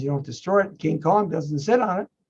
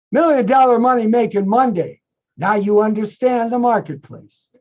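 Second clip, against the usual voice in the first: hyped announcer; 5 semitones higher, 5 dB louder than usual. Real, not acted. Hyped show sign-off.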